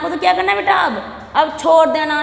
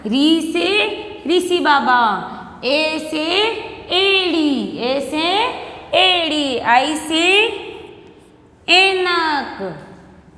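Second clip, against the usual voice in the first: slow, drawn-out letter-and-word drill; alphabet recitation; much slower than usual. Shown as a demonstration. Teacher drilling young pupils in Hindi vowels, slow recitation. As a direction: stretch each vowel for a class to repeat.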